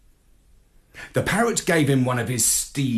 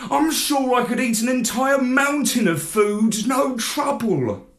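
high, louder puppy pleading; eager begging; 10 semitones higher, 4 dB louder than usual. A narrator's reading. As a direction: beg like a dog at the table. Pup begging for food mountain.

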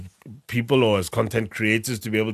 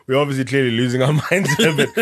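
laughing; 4 semitones higher, 4 dB louder, faster than usual. Real, not acted. Laughing aside.

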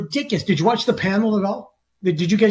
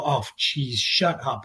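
softer, lower, fed up with himself; muttered self-scolding; 5 semitones lower, 5 dB quieter, slower than usual. Retold or imitated. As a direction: scold yourself under your breath. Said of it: "I watch myself and I go".

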